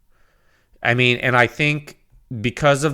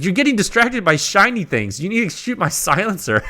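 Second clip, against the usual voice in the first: higher mock nagging voice; imitating Joe; 9 semitones higher than usual. Friend Joe scolds the reviewer about his silencer, mock nagging. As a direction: tease him like a friend scolding him. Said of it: "He's like".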